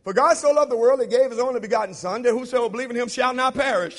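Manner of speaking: quoted fast, with shall pressed hard; misquoted verse. Shown as a demonstration. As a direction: rattle off the verse leaning on shall. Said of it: "you're gonna quote it just like this".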